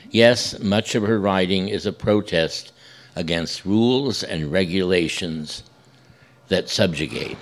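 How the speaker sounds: measured, projected reading to an audience; formal read-aloud. Real, not acted. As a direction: read the written tribute out deliberately, each phrase falling at its end. Reads blurb aloud as introduction.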